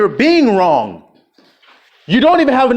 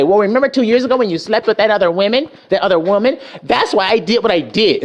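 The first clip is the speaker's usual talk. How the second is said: mock wife retort. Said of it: "they'll say".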